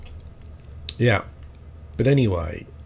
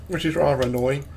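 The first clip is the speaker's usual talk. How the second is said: chewing while talking; mouth full; 2 semitones higher, 3 dB quieter than usual. Real, not acted. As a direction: talk through a mouthful of food. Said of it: "So I'm chewing something".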